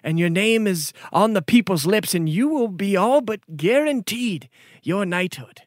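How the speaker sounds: high, courtly gift speech; formal noble lord. Acted. Noble gives the hero a ring, courtly. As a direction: bestow the ring with ceremony.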